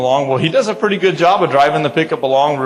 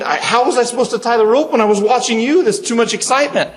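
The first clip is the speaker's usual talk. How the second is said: higher, laughing through the excuse; laughing defense; 8 semitones higher than usual. Retold or imitated. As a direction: laugh while protesting. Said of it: "I said".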